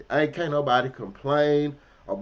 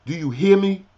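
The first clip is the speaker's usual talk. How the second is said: threat; 5 semitones higher, 9 dB louder than usual. Retold or imitated. Threatening the boss man to man.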